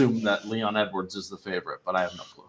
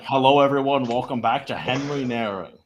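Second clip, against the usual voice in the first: put-on Asian-accented interview intro; lightly imitated Asian-accented welcome; mock Asian accent. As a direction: parody a host's greeting in an Asian accent. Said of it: "introducing one of my interviews and saying".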